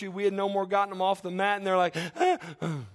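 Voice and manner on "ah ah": mock infant cries tailing off; small pretend baby sobs; imitated baby whimper. Preacher mimicking babies lifted off the mat, mock whimpering. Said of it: "and they're crying".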